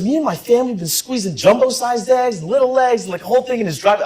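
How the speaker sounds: high, eager billionaire impression; imitated excitement. Billionaire tells intern of family squeezing eggs, high excited imitation.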